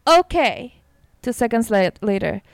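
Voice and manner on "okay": slow, mock text-to-speech voice; lightly imitated dictation voice; robot phone reader. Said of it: "And it says".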